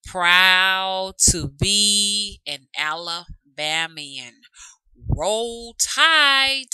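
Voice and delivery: loud, drawn-out rallying cry; proud fan cheer. Real, not acted. Alabama football fan showing home-state pride, proud drawn-out cheer. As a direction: draw each word out, rising into a cheer.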